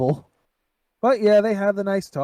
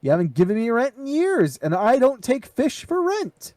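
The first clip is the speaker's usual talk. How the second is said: demanding rent, raised and impatient; gruff impatient scolding; 5 semitones higher than usual. Retold or imitated. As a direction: scold him like an angry landlady. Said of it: "she's like".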